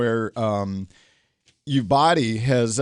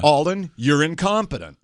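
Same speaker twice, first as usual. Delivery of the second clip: voicing the harsh verdict he heard in his head; a touch of a hurtful jab; imagined accusation, slightly louder; 3 semitones higher than usual. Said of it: "the guy basically said in my head".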